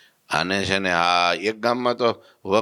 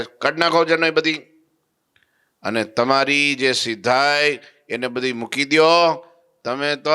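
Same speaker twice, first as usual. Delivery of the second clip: higher and louder, stern rebuke; scolding; 7 semitones higher, 4 dB louder than usual. Retold or imitated. Holy man scolds the siddhas, loud stern rebuke. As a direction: tell them off with authority.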